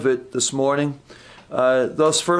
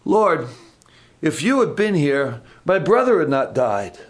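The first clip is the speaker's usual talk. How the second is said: a little frustrated, firmer; the frustrated way Martha may have said it; frustrated reading. Shown as a demonstration. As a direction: press on Lord with reproach. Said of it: "Or maybe she said".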